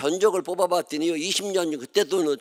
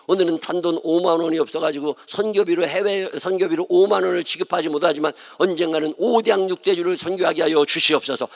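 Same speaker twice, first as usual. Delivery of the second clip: imitating his own prayer. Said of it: "기도를 시작한 거예요".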